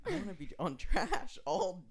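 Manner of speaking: put-on laughing through a child's wish; high, slow and giggling. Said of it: "I was like".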